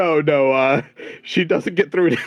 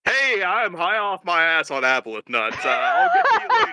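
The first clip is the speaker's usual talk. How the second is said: voicemail greeting; 4 semitones higher than usual. Acted. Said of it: "and then you hear".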